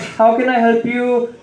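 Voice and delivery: lightly hammed Indian shopkeeper accent. Store owner to a customer, in an Indian accent. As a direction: offer help in a put-on Indian accent. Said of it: "I try to use my accent".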